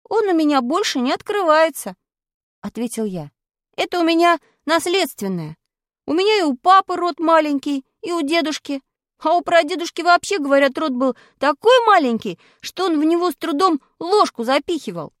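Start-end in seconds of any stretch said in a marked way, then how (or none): 0.1-1.9 put-on much higher boy's voice; indignant boy. 3.8-15.1 put-on much higher boy's voice; indignant boy. Boy explaining.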